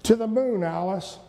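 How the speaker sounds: lightly voiced Gleason catchphrase; quoting Jackie Gleason. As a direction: toss off the old TV line. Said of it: "I said something about".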